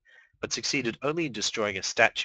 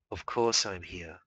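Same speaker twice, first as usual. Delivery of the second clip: petulant; slower than usual. Acted. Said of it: "it sounded petulant".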